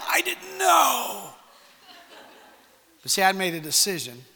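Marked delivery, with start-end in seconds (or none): 0.1-1.3 slow, high, shouted protest; shouting back to the friend, stunned; retold shout. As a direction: yell your innocence at him. Retold protest at surprise party.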